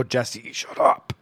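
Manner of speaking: retold forced-out hiss; harsh voiceless scolding; exasperated hushing. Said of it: "telling Jesse to shut the fuck up".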